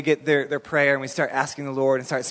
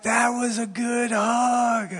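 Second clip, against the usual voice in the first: slow hippie voice; 6 semitones higher, much slower than usual. Retold or imitated. Hippie thanking the church group after the hug, slow and high. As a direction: savor every word like a blissed-out hippie. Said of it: "he said it just like that".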